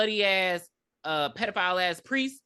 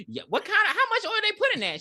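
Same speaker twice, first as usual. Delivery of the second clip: high laughing squeal of a question; laughing mock client; 4 dB louder than usual. Narrating the movie client, a high laughing mock voice. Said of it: "And she's like".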